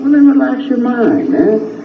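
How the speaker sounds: high-pitched, insistent coaxing; retold reassurance. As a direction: urge him to ease up, voice lifted high. Retold calming of freaked-out man.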